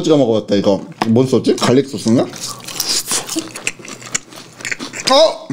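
grimacing mid-chew; talking while chewing. Real, not acted. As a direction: mouth partly full of food. Seen 2: Ate sauce-dipped chicken just before; cheeks and jaw chewing while speaking.

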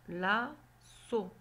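me donne le mot lasso drawn out slowly; slow blending. Shown as a demonstration. Teacher to child, slow blending into a word. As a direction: stretch each word as you build the word. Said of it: "teacher blending syllables into a word".

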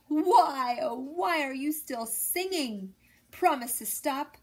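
worn-out mayor pleading with the rooster. A narrator's reading. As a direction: beg the rooster to stop.

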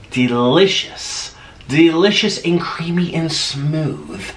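slow, relishing food talk; savoring. Real, not acted. Describing mashed potatoes slowly, savoring each word. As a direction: stretch each word like you taste it.

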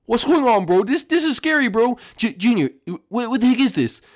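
put-on a scared little boy shouting in a strange place; panicked high kid voice.

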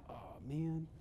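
soft, drawn-out groan of words; quietly acted-out chagrin; deflated realization. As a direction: sheepishly realize you have been caught. Caught out wearing brother's tie.

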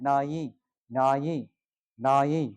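নাই said with a short vowel; wrong pronunciation demo. Shown as a demonstration. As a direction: show the mistake নাই. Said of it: "নাই বললে কিন্তু ভুল হয়ে যাবে". (ভুল উচ্চারণ নাই)

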